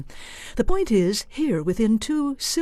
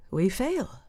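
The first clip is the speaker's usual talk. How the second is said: pragmatic; 3 dB quieter than usual. Shown as a demonstration. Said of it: "the pragmatist".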